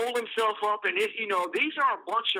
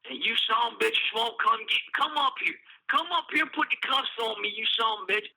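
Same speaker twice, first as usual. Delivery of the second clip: mock drunk ranting; 2 semitones higher than usual. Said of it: "cussing and ranting and raving".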